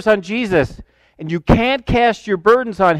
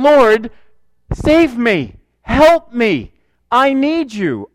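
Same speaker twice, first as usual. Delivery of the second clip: a plea from the knees, rising; crying out; 3 semitones higher, much slower than usual. Retold or imitated.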